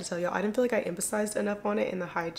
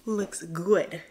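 whisper; 3 semitones higher, slower than usual. Real, not acted. Aside about her skin.

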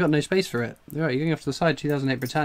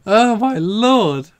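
slow, high, louder oh my lord; amazed; 4 semitones higher, 6 dB louder, much slower than usual. Real, not acted. Collector stunned by another rare coin, slow amazed cry. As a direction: draw it out in stunned delight. Coin hunt, huge lucky find.

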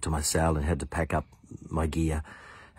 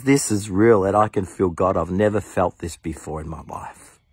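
excited exclamation; 2 semitones higher, 4 dB louder than usual. Retold or imitated. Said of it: "He says".

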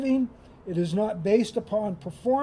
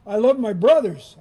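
louder, with "love" punched and falling; emphatic declaration; 6 dB louder than usual. Shown as a demonstration. Preacher declaring to the congregation, loud and emphatic. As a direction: proclaim "love" out loud to the crowd. Contrasting lines about loving siblings.

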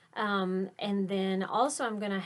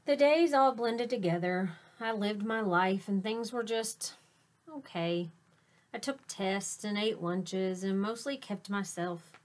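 grand announcement. A narrator's reading. Teacher hyping the cool beans' entrance to kids, showy announcer voice. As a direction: announce them like stars arriving. Reads picture book aloud.

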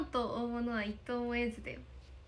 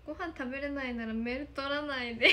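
louder, giggling through the words; laughing tease; 5 dB louder than usual. Real, not acted. Streamer teasing a broke viewer, laughing. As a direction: scold playfully while laughing.

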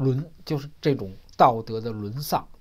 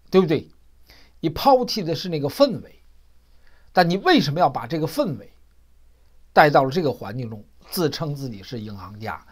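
sharp-tongued rebuke. Retold or imitated. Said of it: "朋友嘴也挺厉害的啊".

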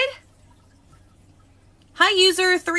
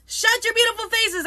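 excited yell; 7 semitones higher, 4 dB quieter than usual. Real, not acted. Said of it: "I'm so sorry for yelling you".

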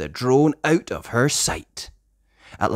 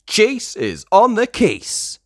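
much higher, slow, proud; eager pup catchphrase; 10 semitones higher, 4 dB louder, slower than usual. Acted. Chase joins the mission, high eager catchphrase. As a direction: announce yourself eagerly. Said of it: "Chase says".

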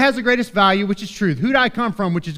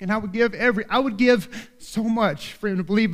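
holding back emotion; 4 dB quieter than usual. Real, not acted. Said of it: "try not to get emotional here".

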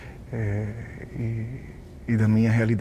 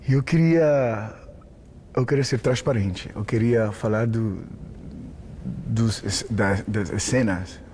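Portuguese with a Spanish accent; halting Spanish-accented Portuguese; slower than usual. Real, not acted. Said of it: "meu português tá um pouquinho maluco hoje".

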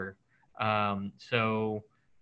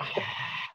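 mock satisfied sigh; 10 dB quieter than usual. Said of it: "someone like".

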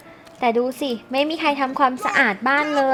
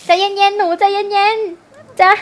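slow, higher, drawn-out calm-down; mock soothing; 6 semitones higher, 6 dB louder, much slower than usual. Coaxing the panicking girl to calm down, slow and higher. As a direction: stretch each word to settle her.

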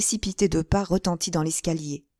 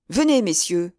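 raised, public call; projected invitation, a bit louder; 6 semitones higher than usual. A narrator's reading. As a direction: summon them openly, pitching up the repeat. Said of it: "dit tout haut d'Artagnan".

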